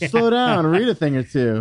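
mock scolding. Teasing cohost, louder repeat.

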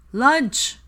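loud, high holler. A narrator's reading. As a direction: holler it across the shop. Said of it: "Ron hollered".

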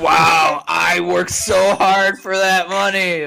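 loud, slow indignant complaint; mock outrage. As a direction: play up the outrage. Mock outrage over silver.

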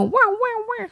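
very high mock baby wail; mock crying wail. The brain's alarm mocking soothing with a high wail. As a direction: wail it like a whiny crybaby alarm.

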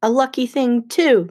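mildly grumbled aside; grumbling. Acted. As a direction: grumble it with a little push. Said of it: "Mister D grumbled".

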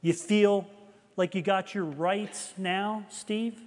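slow, pointed questioning with gentle reproach; lightly voiced divine rebuke, drawn out; measured, searching challenge; voice of conviction. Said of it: "I kinda heard something like this".

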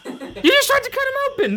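laughing incredulous retort. Real, not acted. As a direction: laugh through the line.

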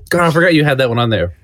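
choking a little mid-sentence. Real, not acted. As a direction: talk while something catches in the throat. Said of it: "Sorry, I'm choking".

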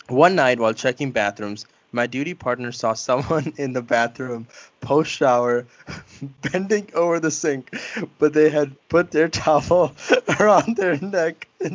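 reading through bursts of giggles; can barely read it for laughing; laughing while reading. Real, not acted. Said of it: "I gotta get the laughter out".

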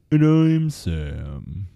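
very slow, low, drooping introduction; gloomy. Pretend. Co-host retrying the intro, slow and mopey. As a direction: stretch it out low and glum. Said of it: "Still doing it".

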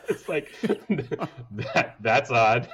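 laughing through it in disbelief; laughing, recalling the odd funeral comment. Real, not acted. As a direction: giggle at how strange it was.

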